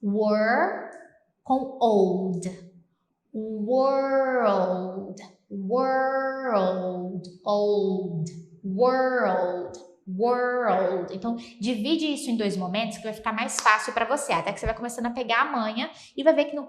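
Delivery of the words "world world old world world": put-on world said slowly as "w" then "old"; world split in two. Shown as a demonstration. Teacher breaking world into sounds. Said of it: "imagina que você tá pronunciando assim".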